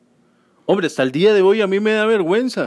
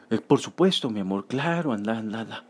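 sleepy sweet reply; 7 semitones lower, 7 dB quieter than usual. Retold or imitated. Father feigning sweetness to child.

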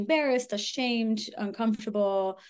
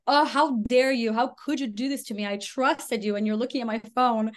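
indignant outburst; 3 semitones higher, 4 dB louder than usual. Retold or imitated. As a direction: act caught and furious. Ex losing it when caught.

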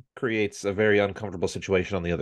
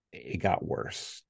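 slow, hushed payoff; deadpan punchline; 6 dB quieter, much slower than usual. Real, not acted. The father delivers the story's turn to his podcast co-hosts, slow and hushed. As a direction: drop it flat and slow. Punchline after "can't get worse.

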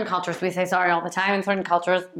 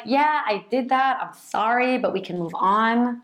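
higher, breezy admission, settling down; playful; 4 semitones higher than usual. Shown as a demonstration. Partner owning a little thing, playful. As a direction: own it lightly and move on. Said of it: "it's a playful repair attempt".

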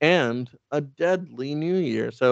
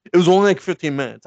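loud, quick, higher-pitched excuse; mock defensive; 6 semitones higher, 8 dB louder, faster than usual. Batman journaling about being knocked out, mock defensive. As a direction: imitate someone hurriedly insisting it was nothing.

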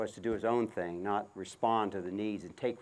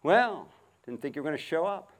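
sarcastic; 5 semitones higher than usual. Retold or imitated. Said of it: "reacting sarcastically".

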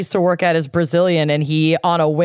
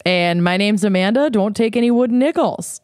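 put-on Minnesotan accent; 4 semitones higher than usual. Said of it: "unleash their worst Minnesotan accents".

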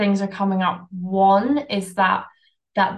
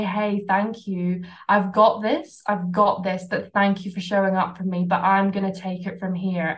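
gentle self-talk. Shown as a demonstration. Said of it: "hold that fear's hand".

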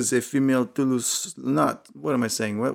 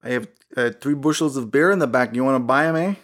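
mock Canadian; 2 semitones higher than usual. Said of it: "very Canadian".

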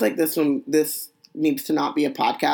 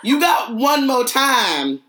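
angry grandma voice; 8 semitones higher, 3 dB louder than usual. Acted. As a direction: warn them like a fed-up grandma. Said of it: "turn into a black grandmother and say".

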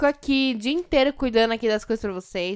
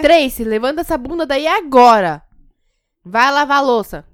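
mock yelling mother; 4 semitones higher, 9 dB louder than usual.

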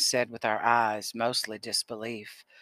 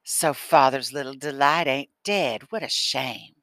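smirking; 2 semitones higher, 5 dB louder than usual. Acted. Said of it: "Lucas smirked".

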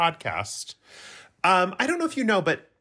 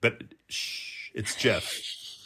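soft, voiceless conspiratorial hush; mock-secret whisper; 4 semitones lower, 6 dB quieter, much slower than usual. Host hushing co-host over listener's code name, mock-secret whisper.

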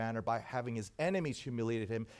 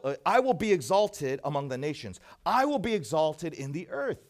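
louder commanding proclamation; conquering king; 3 semitones higher, 6 dB louder than usual. Retold or imitated. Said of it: "something that a conquering king would say".

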